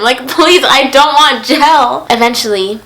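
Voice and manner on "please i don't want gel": begging. Retold or imitated. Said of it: "begging him".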